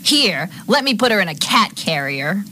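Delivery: high-pitched, slow, acted meanness; mean. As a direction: say it pointedly mean, taking your time. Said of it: "you say this kind of meanly".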